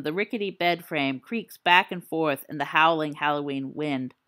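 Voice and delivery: low, measured storyteller voice; hushed ghost-story telling; story narration. Acted. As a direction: spin a spooky campfire tale.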